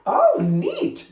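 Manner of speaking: high, bright oh neat; light up at the idea; delighted. A narrator's reading. Melanie thrilled by April's plan, high delighted exclamation.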